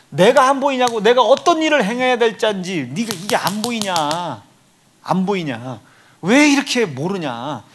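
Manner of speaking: loud exasperated Jesus rebuking Peter; exasperated rebuke. Retold or imitated. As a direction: scold a student who won't get it.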